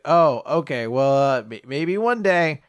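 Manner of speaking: mild acted reluctant soothing; placating reply. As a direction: let a child down gently, haltingly. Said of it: "the little girl gets sad".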